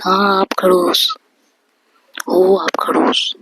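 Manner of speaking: slow, drawn-out retort in a quarrel; mildly defiant, words dragged. Acted. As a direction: throw the accusation back, stretching it out. Acted quarrel, hurling name back.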